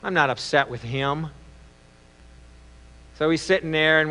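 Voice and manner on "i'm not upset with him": low, soft voice to himself; acted quiet second thoughts; regretful thinking. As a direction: think aloud remorsefully, hushed and low. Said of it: "sits down and starts to think".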